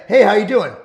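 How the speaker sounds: bright, loud hello into the phone; loud phone greeting. Retold or imitated. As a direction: greet the caller loudly and cheerily.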